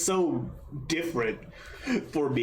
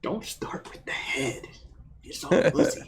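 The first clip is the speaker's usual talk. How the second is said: Batman growl; 2 semitones higher than usual. Pretend. Continuing Batman impression.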